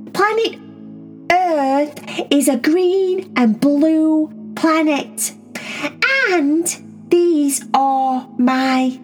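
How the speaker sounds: slow, deliberate words for strangers; grand slow announcement; slow formal introduction. Acted. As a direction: speak slowly so the aliens understand. Introducing herself to alien cats.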